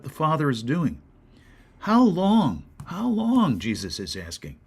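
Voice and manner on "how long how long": exasperated, rising higher on the second; a pained, pleading how long; frustrated plea. Acted. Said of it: "He's frustrated".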